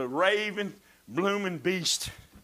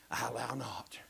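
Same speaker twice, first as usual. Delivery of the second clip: whisper; 7 semitones lower, 10 dB quieter than usual. Acted. Preacher whispering the verse to his listeners. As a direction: drop to a whisper on the confession.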